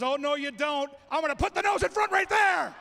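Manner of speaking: a hint of a cheeky dog pulling ahead; announcer voicing the winning corgi's boast; cocky dog voice. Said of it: "Lady Gaga says".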